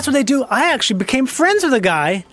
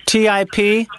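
spelling it out; slower than usual. Real, not acted. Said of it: "It's spelled like it sounds".

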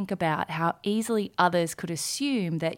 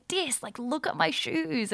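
slow, high imitation of a Lao accent on dis; fond Lao-accented dis, pitched up; child's Lao accent, lovingly imitated; 9 semitones higher than usual. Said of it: "the cutest little Layla Dark accent".

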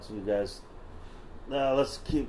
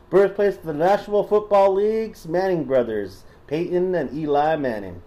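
put-on Southern accent. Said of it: "Should I stop doing the voice?".

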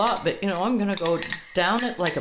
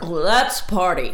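slow party cheer; 6 dB louder, much slower than usual. Real, not acted. Celebrating the soup feat.

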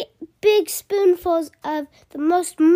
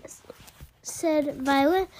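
ordinary delivery, nothing marked

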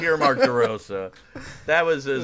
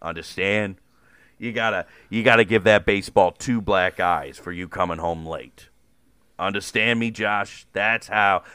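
lower, gruff coach lecturing a player; a tough-talking baseball coach, lightly voiced; Mark DeRosa impression; 3 semitones lower, 4 dB louder than usual. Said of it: "that's how you do a good Mark DeRosa".

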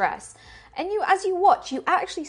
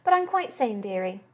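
put-on sly old woman. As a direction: tease like a shrewd grandmother. Doris insists.

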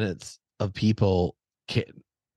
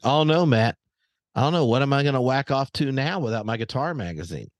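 raised, high-pitched mock dismay; irritated sarcastic outburst, pitched up; so loud; 5 semitones higher than usual. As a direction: call it out loudly for the other rooms to hear. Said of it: "I said it so loud".

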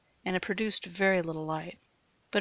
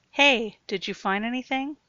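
raised voice calling below; calling down stairs; 5 semitones higher, 7 dB louder than usual. Acted. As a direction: call down into the dark. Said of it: "he called down".

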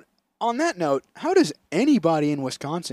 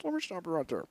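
imitating Biden; 3 semitones higher than usual. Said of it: "And he goes".

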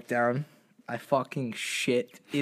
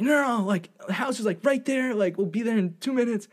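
high, light reassurance; higher girlish urging; a hint of the girls; mock girls' voice; 7 semitones higher than usual.

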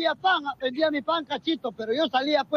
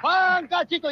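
street vendor cry; slower than usual. Retold or imitated. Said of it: "y gritaba".

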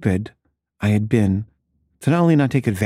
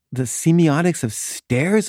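slow, higher incredulous question; mock incredulous; 6 semitones higher, slower than usual. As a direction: stretch it out in disbelief. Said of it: "just freaking out".

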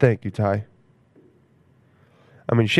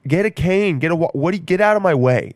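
mock impatient; 6 semitones higher than usual. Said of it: "And he, like".

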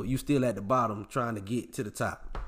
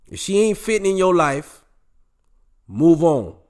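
loud move on; 5 semitones higher, 8 dB louder than usual. Real, not acted. Host yelling at his listeners to move on. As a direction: shout it, much louder.

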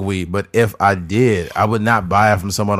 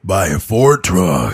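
truck commercial voice; 3 semitones lower, slower than usual. Retold or imitated. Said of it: "sounded like one of the guys from, like, the Ford Tough commercials".

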